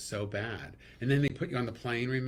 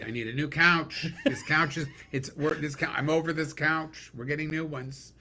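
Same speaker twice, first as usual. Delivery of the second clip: gay guys shopping; 6 semitones higher, 6 dB louder than usual. Retold or imitated. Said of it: "and the gay guys, they".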